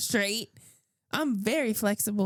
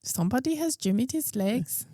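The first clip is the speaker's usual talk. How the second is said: put-on failed Indian accent. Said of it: "It's Irish a little bit".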